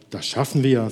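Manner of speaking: steady, even reassurance; calm reassurance. Acted. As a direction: settle her gently, unhurried. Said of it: "sagte der andere".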